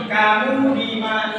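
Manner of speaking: "kamu di mana" posed as a question, "di" lengthened; question intonation. Shown as a demonstration. Teacher quizzing the class, "kamu di mana" in question intonation. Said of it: "Ini intonasi apa?".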